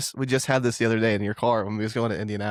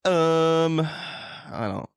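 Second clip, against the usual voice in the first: lightly voiced little cartoon villain; Plankton voice; 4 semitones higher, much slower than usual. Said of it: "Plankton from SpongeBob".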